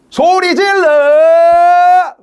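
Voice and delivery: very long, high, loud yell; shouting. Shown as a demonstration. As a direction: whoop it out like rousing a crowd. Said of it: "여러분 한번 소리 질러보세요".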